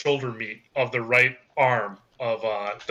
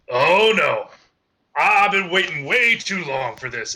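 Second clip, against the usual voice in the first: lightly voiced eager Revenant, a little louder and higher; a touch of in-character relish, raised voice; 3 semitones higher, 4 dB louder than usual. Game master as the Revenant charging forward, lightly acted eagerness. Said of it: "He just goes".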